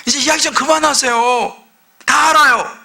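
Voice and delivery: hammed-up impatient people; fed-up plea. Preacher voicing Israel telling God to stop, mock annoyed. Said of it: "이스라엘 백성이 지금 그렇게 얘기하는 거예요".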